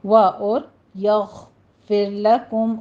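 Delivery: slow یغفر لکم with a heavy ghain; slow recitation, ghain full; tajweed demo. Shown as a demonstration. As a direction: chant یغفر لکم slowly, ghain thick. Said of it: "غین کو بھی آپ نے ... پر پڑھنا ہے".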